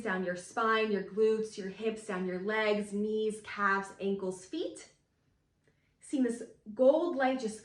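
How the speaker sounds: calm guiding voice; guided visualization. Acted. Leads a grounding visualization.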